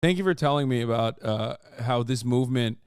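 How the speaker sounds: mock gratitude, deadpan; sarcastic. Real, not acted. Sarcastic thanks to commenters.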